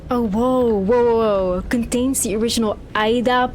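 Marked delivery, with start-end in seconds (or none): 0.1-1.6 loud startled whoas; surprised. Real, not acted. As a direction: react with sudden surprise. Startled by what he sees.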